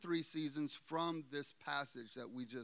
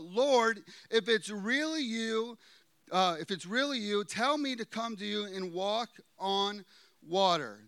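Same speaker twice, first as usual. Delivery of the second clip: Peter's plea called out louder; calling out; 3 semitones higher, 7 dB louder than usual. Acted. Preacher voicing Peter calling out from the boat, raised. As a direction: call out across the water to the Lord. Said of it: "Peter called out".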